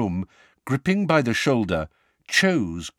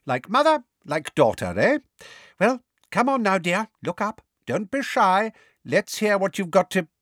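hearty coaxing; 10 semitones higher than usual. A narrator's reading.

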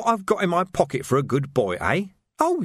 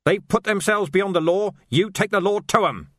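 manic rage; 8 semitones higher than usual. A narrator's reading. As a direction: hammer every line like a zealot. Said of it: "the manic rage subsided".

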